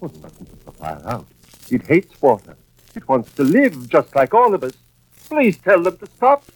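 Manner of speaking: pleading for the fire's life; a madman adoring the fire; rapturous. Acted. Pyromaniac rhapsodizes about fire.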